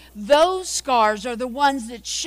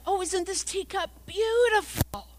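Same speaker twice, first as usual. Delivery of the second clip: admiring exclamation; 6 semitones higher than usual. Acted. Acted grandparent admiring a teacup in story.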